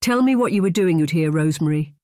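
Rosemary in a commanding Scottish brogue. Acted. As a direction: order her to answer, Highland accent. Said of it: "His voice was commanding, authoritative".

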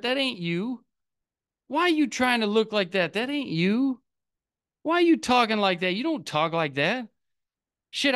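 puzzled friend calling out a phony; mock scolding. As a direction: playfully take your past self to task. Scolds past self in acted quote.

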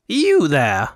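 loud, pointed hail; accusing call. Acted. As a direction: call him out sharply and loudly. Governor confronts the accused fop.

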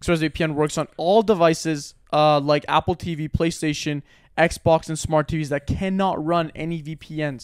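measured, scripted ad delivery; sponsor read. Acted. Co-host listing features to listeners, ad-read delivery.

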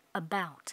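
about ending in a crisp T; teacher shows the final T. Shown as a demonstration. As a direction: close about with a clear T. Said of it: "có âm T ở cuối".

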